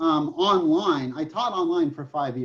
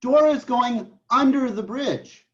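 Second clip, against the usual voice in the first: higher, louder, slow imitation of a child; retold little daughter; 6 semitones higher, 5 dB louder, slower than usual. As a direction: mimic a small child explaining, drawn out. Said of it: "And she says".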